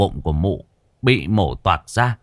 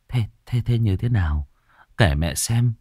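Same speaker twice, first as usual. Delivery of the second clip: gentle mother. Acted. Mother gently asking daughter.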